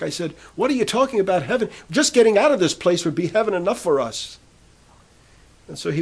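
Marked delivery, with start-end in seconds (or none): 0.6-4.4 quick, higher scoffing retort; bitter outburst. Retold or imitated. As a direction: blurt it out, unable to hold back. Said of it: "I just couldn't hold back".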